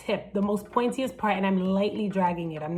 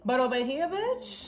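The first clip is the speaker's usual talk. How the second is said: mock admiring squeal; 3 semitones higher than usual. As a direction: climb into a long, thin, high cheer. Acts bold side, admiring herself.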